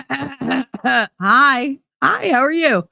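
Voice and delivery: high, sing-song fake friendly hi; sly fake greeting. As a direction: greet her sweetly, knowing her secret. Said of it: "been like".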